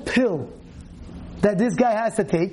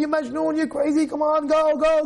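wife's mock yell; 6 semitones higher than usual. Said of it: "his wife's screaming at him".

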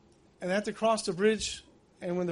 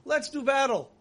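arrogant challenge; 6 semitones higher than usual. Retold or imitated. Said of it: "Turns to Hashem".

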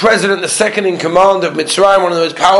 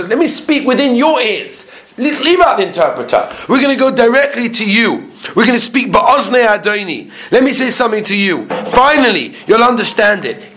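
mildly acted, raised-pitch appeal; earnest plea; 4 semitones higher than usual. Yehuda appealing to Yosef without the interpreter, earnest plea. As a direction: press the case directly, pitch lifted a little.

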